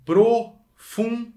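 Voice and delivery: profundo said slow, high and loud; profundo, each syllable held; stressed profundo. Shown as a demonstration. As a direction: draw out profundo with weight. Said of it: "presta atenção".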